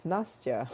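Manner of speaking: "Nastya" as NAHS-tya; short-form pronunciation. Shown as a demonstration. Giving the true everyday name, "Nastya" as NAHS-tya. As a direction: say "Nastya" in two syllables, stressed first. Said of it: "it's really not even that".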